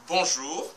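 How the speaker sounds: bonjour with JOUR strong and long; bonjour, weight on the ending; stress on final syllable. Shown as a demonstration. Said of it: "jour est la syllabe la plus forte".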